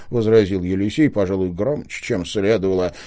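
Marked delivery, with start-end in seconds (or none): none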